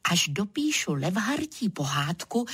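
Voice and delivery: ordinary delivery, nothing marked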